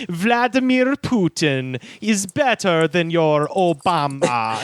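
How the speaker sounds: slow, put-on Russian accent; mock Russian villain spokeswoman; thick Russian accent. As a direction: declaim it slowly in a Russian accent. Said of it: "she spoke in a thick Russian accent".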